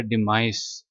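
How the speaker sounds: डिमाइस ending in a buzzing z, not s; demise with a z. Shown as a demonstration. Teacher tells students the ending sound. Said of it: "इसको आपने एस नहीं पढ़ना".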